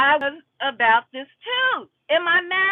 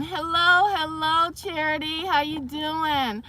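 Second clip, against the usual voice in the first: muffled greeting through hand; hand over mouth. Real, not acted. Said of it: "my mouth is covered up".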